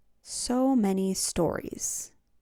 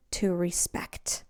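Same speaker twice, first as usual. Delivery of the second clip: whisper; 3 semitones lower, 6 dB quieter, slower than usual. Real, not acted. Soft emphasis on the key word.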